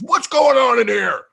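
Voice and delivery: very high, loud mock mother; mother telling dad about the fight, high mock shriek; mom's outrage. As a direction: shriek it as the upset mom. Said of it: "He goes".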